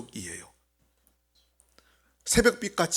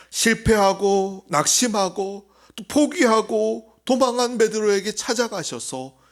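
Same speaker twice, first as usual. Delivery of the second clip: slow emphatic; 5 semitones higher, slower than usual. Real, not acted. Preacher slows for emphasis.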